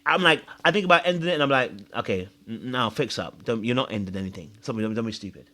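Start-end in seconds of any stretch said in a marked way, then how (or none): 1.9-5.5 soft, low telling-off to oneself; quiet self-talk. Retold or imitated. Talking himself out of dark thoughts, quietly.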